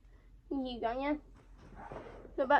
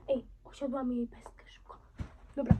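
ordinary talk, nothing marked

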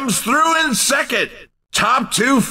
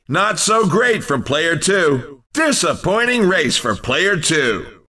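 disappointed announcer; 6 semitones lower than usual. Acted. Announcer reports a poor result.

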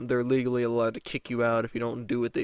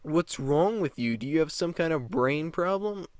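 higher, louder slow furious yell; shouting mock rant; angry rant; 5 semitones higher, 9 dB louder than usual. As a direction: blast her, stretching out chore. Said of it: "what I was thinking".

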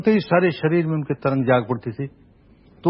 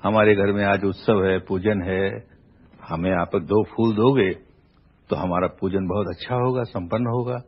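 a gentle, lower, sweet-natured request; lovingly; 5 semitones lower than usual. Acted. Polite visitor asks the gardener for flowers, speaking lovingly. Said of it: "उसने बड़े प्यार से कहा".

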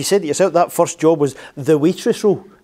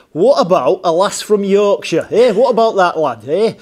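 put-on broad, louder Yorkshire accent, flat vowels; 3 semitones higher, 5 dB louder than usual. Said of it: "how was the accent?".

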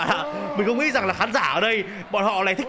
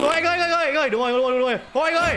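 mock begging; 5 semitones higher, faster than usual. Mock begging during fight.

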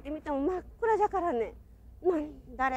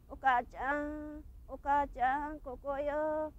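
faint little voice; 6 dB quieter, much slower than usual. Retold or imitated. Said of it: "かすかな声が聞こえてきたんです".

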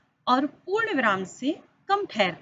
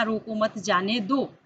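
"रोको मत जाने दो" run on as one phrase; no pause marked. Shown as a demonstration. Teacher showing pupils the unpunctuated sentence, no pause marked. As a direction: say रोको मत जाने दो with no break anywhere. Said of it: "यहाँ पर किसी भी तरह का विराम चिन्ह का प्रयोग नहीं किया".

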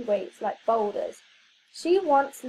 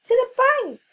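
high, loud rallying cry; cried out; 11 semitones higher, 8 dB louder than usual. A narrator's reading. Hero Evan rallying his partner, loud cry. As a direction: shout it like a hero charging off. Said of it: "Evan cried".

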